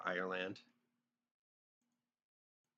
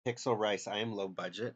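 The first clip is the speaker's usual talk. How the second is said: a little louder, playfully indignant; mock offended; 5 dB louder than usual. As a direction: throw the insult back in mock outrage. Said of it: "How freaking dare you?".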